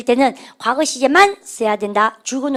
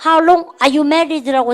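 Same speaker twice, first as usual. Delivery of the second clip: slow model reading; 3 semitones higher, much slower than usual. Shown as a demonstration. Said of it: "시작".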